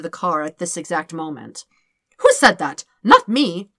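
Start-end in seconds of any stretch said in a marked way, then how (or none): 2.2-3.7 loud, alarmed backtracking; panicked denial. Acted. Dirk fearing Kid overheard, loud panicked denial. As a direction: cover yourself in a panic.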